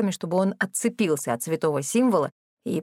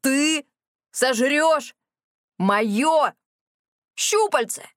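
shocked outrage; 6 semitones higher, much slower than usual. A narrator's reading. Tentacle owner horrified at threat.

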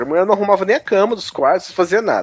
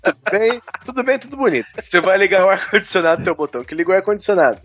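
ordinary delivery

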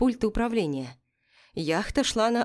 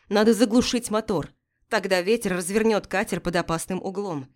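shouting over wind. Acted. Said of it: "Ярослав кричал".

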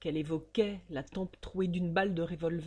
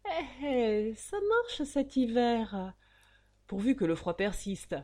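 a hint of a gleeful old banker chuckling to himself; lightly voiced chuckle over the ledger; chuckling murmur; 4 semitones higher than usual. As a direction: savour the profit, pleased with yourself. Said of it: "murmura tout guilleret".

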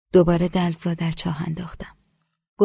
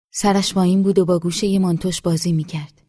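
usual speaking voice

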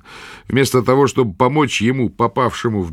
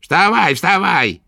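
high, louder impatient order; irritated repeat; 9 semitones higher, 3 dB louder, slower than usual. A narrator's reading. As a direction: snap at him to get up. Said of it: "раздражённо повторила ведьма".

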